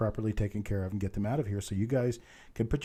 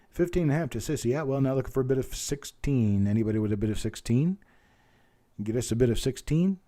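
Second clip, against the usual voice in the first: auctioneer's bid call. Real, not acted. Auctioneer asking the online bidders for more, in quick bid-call patter. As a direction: call the bids briskly like an auctioneer.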